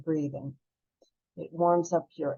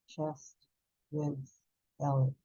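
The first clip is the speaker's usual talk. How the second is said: Chest, ribs, belly, spaced out and much softer; hushed count releasing the breath; softer breath cue; 6 dB quieter than usual. Shown as a demonstration. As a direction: let the words fade out with the exhale.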